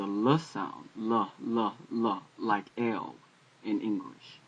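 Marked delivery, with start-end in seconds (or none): 0.0-2.2 L voiced as a short "luh"; letter sound demo. Shown as a demonstration. Teacher sounding out Lamed for learners, letter sound demo. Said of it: "is a L sound".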